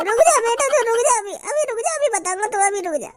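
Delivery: wait right there, menacing; menacing threat. Acted. Bouncer threatening the young man before calling help, menacing.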